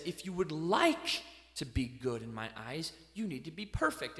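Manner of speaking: a low, soft, calm divine voice; a hint of a lordly voice; voice of God. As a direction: speak as God, gently and gravely. God's words voiced to believers.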